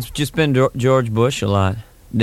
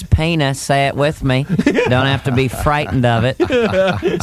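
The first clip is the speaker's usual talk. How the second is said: a lightly voiced health teacher, the end slow and soothing; mock health teacher; slower than usual. Teaching the class a word, a light mock teacher. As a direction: coax the class like a gentle teacher. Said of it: "that scientific term".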